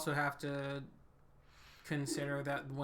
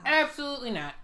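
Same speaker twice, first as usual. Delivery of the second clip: higher, louder flat no; emphatic refusal; 11 semitones higher, 7 dB louder than usual. Real, not acted. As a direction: shut the idea down firmly. Retorting to a woman in the clip.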